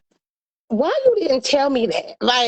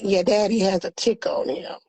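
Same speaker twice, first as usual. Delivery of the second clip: calm mama; 4 semitones lower, 3 dB quieter than usual. Retold or imitated. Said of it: "she just calmly like".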